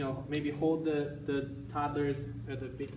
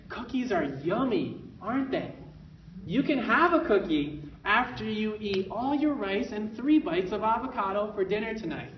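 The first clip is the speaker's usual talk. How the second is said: friendly parent voice; 4 semitones higher than usual. Shown as a demonstration. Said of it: "Parent can say".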